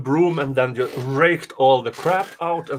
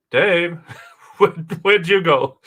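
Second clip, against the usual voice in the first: calling out; 4 semitones higher, 7 dB louder than usual. Real, not acted. Cohost vanished from call.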